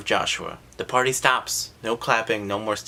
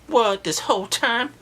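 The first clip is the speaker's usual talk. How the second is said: high, louder disbelieving gasp; shocked; 13 semitones higher, 4 dB louder than usual. Real, not acted. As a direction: react like you just got fooled. Shocked at the reveal.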